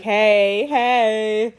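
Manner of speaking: drawn-out, playful "hey"; mock smitten greeting. Smitten reader greeting her book crush, playfully drawn out. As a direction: call out like a smitten admirer.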